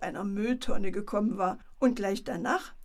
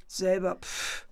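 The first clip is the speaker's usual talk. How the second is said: cheeky aping retort with a scoffing pff; childish mock echo; mocking mimicry. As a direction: mimic him back like a saucy monkey. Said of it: "äffte der Affe nach".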